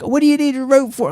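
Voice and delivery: squeaky high mock old lady, puzzled; high-pitched old lady. Old lady at the window asks the rescuer why, squeaky. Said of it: "And then the lady's like".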